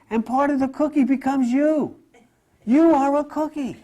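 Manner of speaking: chuckling through the joke; amused, laughing delivery; laughing at his own joke. Real, not acted.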